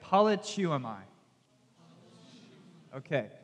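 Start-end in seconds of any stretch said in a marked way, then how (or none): 0.0-1.0 "Politeuomai" sounded out clearly as pah-lih-too-uh-my; pronunciation model. Shown as a demonstration. Teacher has listeners try the Greek word "Politeuomai", pronunciation model. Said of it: "Try and say that".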